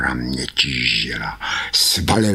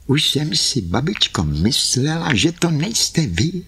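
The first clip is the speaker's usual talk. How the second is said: put-on high little-girl voice; Karkulka's voice; 10 semitones higher than usual. Karkulka greeting grandmother, high and childlike. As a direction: speak up high like a relieved child.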